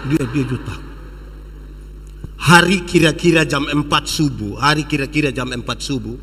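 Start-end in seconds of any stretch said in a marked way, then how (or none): 0.1-0.8 low lion growl; a short, deep lion's "eh". Acted. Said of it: "tiba-tiba singa bilang".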